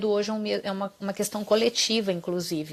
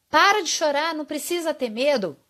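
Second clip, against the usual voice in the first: dismissive adult; 5 semitones higher than usual. Retold or imitated. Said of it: "você vai falar pra criança".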